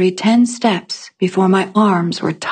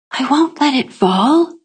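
higher, lightly voiced child; child's reassurance; 6 semitones higher than usual. A narrator's reading. Ranar promising Etta to carry the laundry, reassuring. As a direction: answer the worry in a higher voice.

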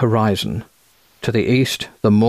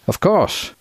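higher-pitched, quacking American voice; quacking American accent; 9 semitones higher than usual. A narrator's reading. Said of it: "he said in a quacking American accent".

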